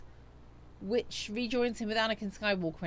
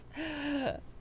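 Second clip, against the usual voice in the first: high gasp for air after laughing; laughing at herself; 6 semitones higher, 3 dB quieter than usual. Real, not acted. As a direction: catch your breath after cracking yourself up. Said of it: "I'm making myself laugh".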